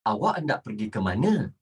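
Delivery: low, brisk, fully worded formal Malay; formal textbook Malay. Shown as a demonstration. Teacher models asking where you go, properly formal. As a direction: say every word properly, in a low register. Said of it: "you have to speak like this".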